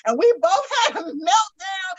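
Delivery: laughing through the words; real laughter, high. Real, not acted. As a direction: crack up telling it. Laughing while recalling meltdown.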